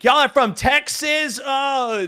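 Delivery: high-pitched mock-indignant Karen; imitated mad Karen, high and scornful. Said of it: "mad Karens come up to us and be like".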